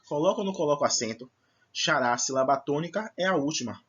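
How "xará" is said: Xará with more force on final RÁ; stressed last syllable. Shown as a demonstration. Teacher locating the tonic syllable, stressing the end of Xará. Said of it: "pronuncio com mais força a última".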